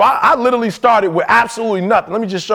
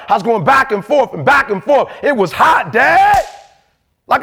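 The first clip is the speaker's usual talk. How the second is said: put-on pleading, raised teen complaint; whiny son; 3 semitones higher than usual. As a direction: protest like an aggrieved kid. Voicing son's complaint.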